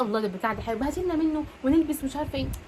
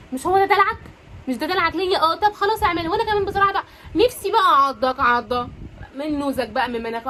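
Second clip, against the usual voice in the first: louder, higher coy teasing; playful flirty reply; 3 semitones higher, 4 dB louder than usual. Acted. Wife playfully answering her husband's teasing, louder and higher. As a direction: bounce it back at him, delighted.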